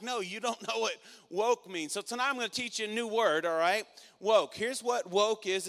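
loud, high preaching voice; fired-up preacher rallying the congregation; preaching at full force. Acted. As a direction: drive the point home to the crowd.

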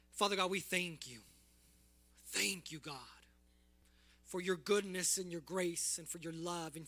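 earnest prayer voice, unhurried. Real, not acted. Pastor praying for his church, earnest.

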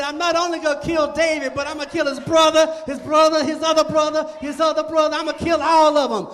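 loud, fast bragging threat; Goliath boasting. Acted. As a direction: rattle off the threat loudly, gloating. Goliath boasting about killing everyone.

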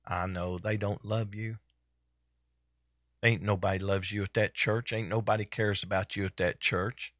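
low, soft, falsely caring devil; whisper-close lies to a sulking believer; the devil sympathizing. Acted. Devil voice feeding the pity.

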